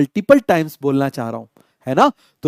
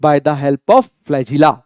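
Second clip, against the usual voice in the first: slow completion; 3 semitones lower, much slower than usual. Shown as a demonstration. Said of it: "बोलो, बोलो".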